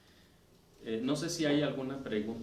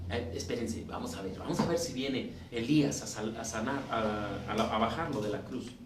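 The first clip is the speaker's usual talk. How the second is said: lightly voiced scoffing onlookers; mocking; 4 semitones lower than usual. Onlookers at the cross taunting Jesus, mildly mocking. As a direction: sneer at him, a mild mock taunt. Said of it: "Burlándose".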